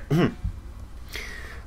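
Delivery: breathy choking cough; soft hacking cough; quiet cough. Real, not acted. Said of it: "but I'm choking".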